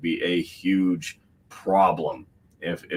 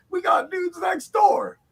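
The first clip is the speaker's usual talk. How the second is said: slow, much higher mock shout; imitating Eric July; slower than usual. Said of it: "He's like".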